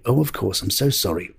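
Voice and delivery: mildly sweet, gently apologetic; lightly imitated sweet royal apology. The Queen taking direction, sweetly apologetic. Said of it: "she'd be so sweet".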